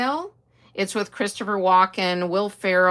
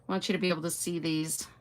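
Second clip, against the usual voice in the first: fast unvoiced whisper; 5 dB quieter, faster than usual. Real, not acted. To viewers about blurry video, whispering fast. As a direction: hush it quickly.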